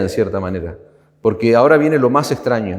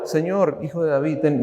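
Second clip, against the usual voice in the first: soft, meek asking, much softer; timid quiet plea; 3 semitones higher, 6 dB quieter than usual. Shown as a demonstration. Preacher showing how she did not ask, a soft meek plea. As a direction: ask softly as if afraid to bother. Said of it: "no, está gritando".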